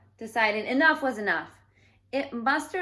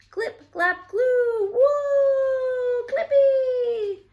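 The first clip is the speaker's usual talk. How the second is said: very high, loud, strange alien chatter; high-pitched alien babble, loud and bright with excitement; 9 dB louder, much slower than usual. Acted. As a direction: squeal it out like a giddy alien ship. Alien ship speaks in alien words.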